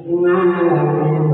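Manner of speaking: "Alamin" dragged out slowly; faulty Quran recitation. Shown as a demonstration. Teacher showing a common reading mistake, "Alamin" wrongly drawn out. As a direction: stretch the syllables of "Alamin" too long. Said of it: "Masih salah baca Al-Quran".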